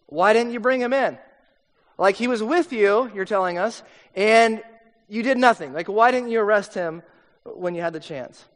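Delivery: a mild, exasperated rebuke of the guards; scolding demand. Retold or imitated. Pharisees rebuking the guards for not arresting him, mildly exasperated. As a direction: press the guards, accusing but not shouting.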